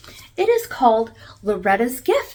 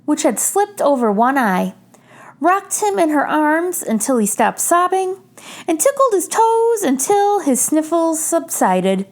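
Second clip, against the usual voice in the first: put-on gentle read-aloud for children; story narration. A narrator's reading. Reader sharing a picture book with children, gentle. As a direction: read it like bedtime story time.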